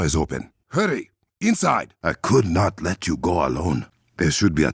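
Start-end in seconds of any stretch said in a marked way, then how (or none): 0.7-1.9 urgent shout. Acted. Urging allies onward.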